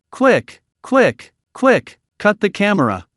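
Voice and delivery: a panicked director hurrying his staff; frantic order. A narrator's reading. Director shouts at his staff to cut the feed, frantic and high. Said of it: "frantically instructed his staff".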